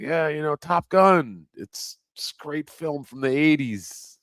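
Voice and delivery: high, keen retold self; enthusiastic pitch. Pitching Top Gun to the cashier, excited. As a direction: sell the film, upbeat and lifted. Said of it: "I was like".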